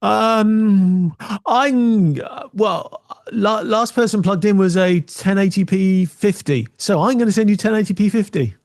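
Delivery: a computer unsure of itself, slowly; hesitant computer. Retold or imitated. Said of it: "The computer goes".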